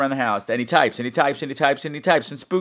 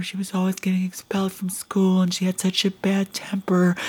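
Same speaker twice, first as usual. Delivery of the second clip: secretive whisper; 3 semitones higher, 3 dB quieter than usual. Retold or imitated. Agnes confides about her daughter.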